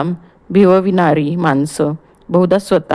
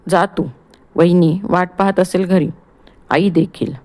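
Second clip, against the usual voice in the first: turning serious. Acted. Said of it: "गंभीर होत".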